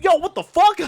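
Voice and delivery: high, loud mock protest; retold startled outrage. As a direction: act out an indignant yelp, high and loud. Retold confrontation after knocking someone down.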